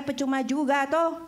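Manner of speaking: normal talking voice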